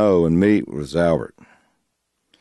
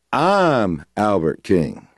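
slow, deliberate imitated punchline; a blues singer; much slower than usual. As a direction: land the name slowly, back down in pitch. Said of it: "he looks at me and he goes".

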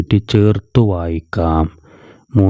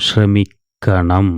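slow joined reading; much slower than usual. Shown as a demonstration. Teacher answers her own question slowly for pupils. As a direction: draw the joined word out slowly. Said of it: "എങ്ങനെ ചേർത്ത് വായിക്കാം?".

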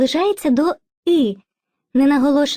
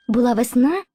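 весна stressed on the final А; unstressed first vowel in весна, strong final А; stress on second syllable. Shown as a demonstration. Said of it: "З'явився якось дядечко Наголос".

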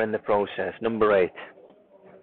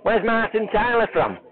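higher-pitched, put-on Lancashire voice; mock northern accent sliding into Lancashire; wandering Lancashire accent; 6 semitones higher than usual. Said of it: "oh, is that, that's Lancashire".

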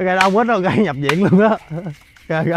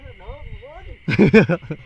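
laugh; 2 semitones higher than usual. Real, not acted. Laughs during the game.

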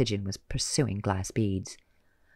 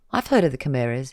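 bland; 5 dB louder, faster than usual. Acted. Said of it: "he said blandly".

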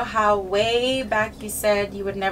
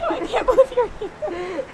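crying; 11 semitones higher, 6 dB louder than usual. Real, not acted. Reunion tears.

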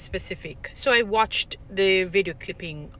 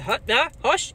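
quick firm hush; 3 semitones higher than usual. Retold or imitated. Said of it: "just quickly and firm, crisp".

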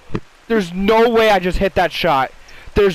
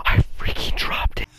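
whisper. Real, not acted. Frustrated dropped item in game.

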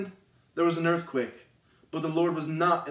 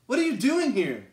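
raised, pressing question to Elijah; God's demanding question; 6 semitones higher than usual. Acted. God confronts the hiding prophet, raised and pressing. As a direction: press him hard, pitch up. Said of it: "And Elijah says".

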